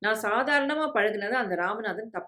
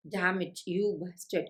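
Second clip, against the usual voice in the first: slow, restrained narrated fury; furious through clenched teeth; 3 dB quieter, much slower than usual. A narrator's reading. Sister cursing after her brother as he leaves, contained rage. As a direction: grind out the curse slowly, teeth clenched. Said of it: "என்று பற்களை கடித்துக்கொண்டு வெறி கூச்சலிட்டு".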